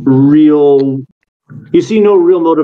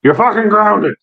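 put-on gruff old man scolding; 7 semitones higher than usual. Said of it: "He goes".

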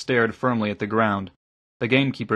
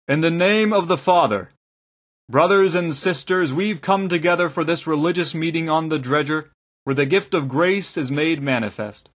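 raised, solemn sermon opening; preaching; 4 semitones higher than usual. Acted. Kazinda lightly preaching as he opens the meeting. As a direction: lift the voice higher to open the service.

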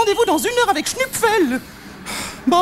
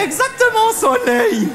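imitating the simple son; 3 semitones higher, slower than usual. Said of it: "ce qu'il disait tout le temps".

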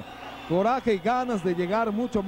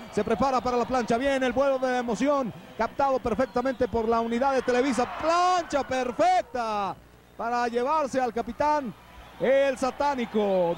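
higher excited call, stretched words; wrestling commentator; 4 semitones higher than usual. Real, not acted. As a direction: sell the big dive to the crowd. Commentator calls the dive and pin.

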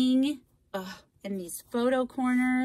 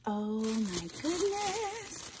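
high, drawn-out awe after a gasp; gasp, then stretch it out high; amazed gasp; 6 semitones higher, 3 dB quieter, slower than usual. Real, not acted. Crafter seeing her handmade gift, amazed.

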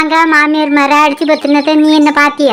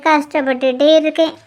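lamenting to herself; 2 semitones lower than usual. Acted. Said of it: "ஒத்தையில கிடந்து புலம்பிட்டு இருக்க".

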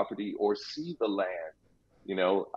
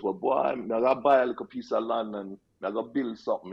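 put-on Jamaican accent. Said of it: "I hope you appreciated my Jamaican accent there".

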